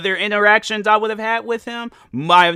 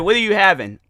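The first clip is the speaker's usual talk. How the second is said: raised voice; 4 semitones higher than usual. Retold or imitated. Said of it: "I said it to a good enough volume".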